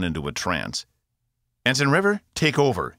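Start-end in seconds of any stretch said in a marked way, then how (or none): 1.6-3.0 higher, louder command; yelled order. A narrator's reading. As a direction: bark the order across the bridge. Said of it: "he yelled".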